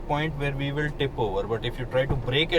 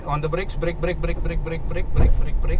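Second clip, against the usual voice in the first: urgent repeated brake commands, rising loud; nagging backseat driver; 3 semitones higher, 6 dB louder than usual. Real, not acted. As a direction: keep barking brake at the driver. Instructor urging driver to brake.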